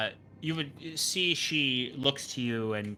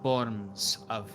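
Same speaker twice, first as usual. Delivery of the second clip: slow, grave mystic lecturing; a cryptic oracle correcting a guest; a hint of a stern priestess; solemn seer; 4 dB quieter, slower than usual. GM voices the seer on magic.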